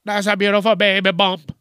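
put-on cooing over a baby bump; sugary admiring coo, lightly voiced; gushing stranger. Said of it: "some motherfuckers are like".

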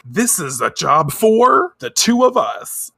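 high, slow, loud vow; heroic declaration. Retold or imitated. Heroines vowing to fight, heroic and drawn out. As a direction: declare it like magical girls. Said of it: "Chibiusa and Usagi are like".

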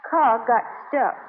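slow, through tears; tearful. Acted. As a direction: admit it while crying. Taffy returns, crying.

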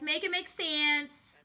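each word slowed and spaced out; slowed emphasis. Real, not acted. Exasperated at the unfair bonus, slow deliberate repeat. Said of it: "slowed repeat".

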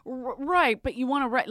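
whisper. Real, not acted. Heard whisper.

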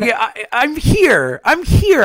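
hoarse and worn out from illness; sick voice. Real, not acted. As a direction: push through feeling sick. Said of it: "I feel like death".

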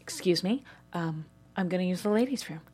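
imitating someone barely holding it together; trying not to cry. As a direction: excuse yourself meekly while fighting tears. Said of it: "As I'm trying not to cry".

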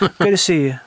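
put-on subtle Southern business accent; Atlanta businessman. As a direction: sign off as a lightly Southern executive. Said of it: "That's Atlanta businessman".

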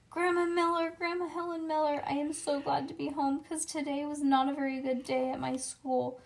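high calling for grandma. Acted. Junie B. hollering for her grandma on arriving home. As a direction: holler into the house.

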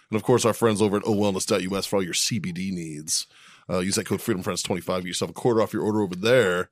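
podcast ad read; advertiser mode. Acted. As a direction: slip into a sponsor plug voice. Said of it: "I just flipped into fucking advertiser mode".

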